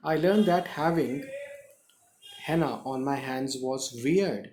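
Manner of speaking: very slow, deliberate reading; slow dictation. Shown as a demonstration. Teacher reading the line slowly to the class. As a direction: draw out every word for learners. Teacher reads English text aloud.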